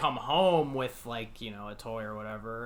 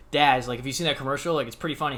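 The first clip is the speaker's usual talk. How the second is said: fake casual to dad; 3 dB louder, faster than usual. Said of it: "I was like".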